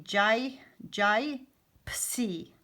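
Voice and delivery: "jai" with a long I, then "psi" as puh-see; wrongly split gypsy. Shown as a demonstration. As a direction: sound out "jai, psi" in separate chunks. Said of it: "If we were to split it right here".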